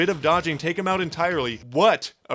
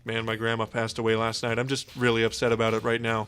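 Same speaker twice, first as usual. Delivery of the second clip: lightly sad; 5 semitones lower than usual. Acted. Sad coworker skit.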